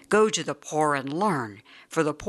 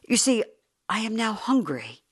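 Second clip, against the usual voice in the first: higher-pitched, mildly gentle plea; gentle appeal; 6 semitones higher than usual. A narrator's reading. Hungry beggar reasoning with the householder, gently. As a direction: explain it gently, with restraint. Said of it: "still gently".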